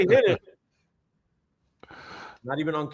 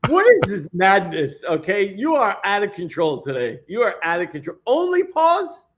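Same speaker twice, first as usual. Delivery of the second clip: mock outrage; 5 semitones higher, 4 dB louder than usual. Real, not acted. Mock outrage at OnlyPause suggestion.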